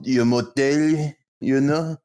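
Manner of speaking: put-on French accent, slow and drawn out. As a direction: do a lazy comic Frenchman. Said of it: "He just doesn't pronounce any of the T's".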